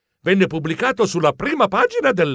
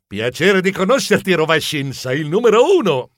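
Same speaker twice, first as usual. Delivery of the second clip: lightly eager rehearsed greeting; conventional greeting; 3 dB louder than usual. Acted. Geronimo rehearses meeting the champion, conventional greeting. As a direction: try out a polite line to a champion. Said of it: "troppo banale".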